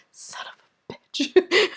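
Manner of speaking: a sudden high, exasperated swear; exasperated curse. Retold or imitated. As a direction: blurt it out in disbelief at the altar. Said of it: "and I stop and I go".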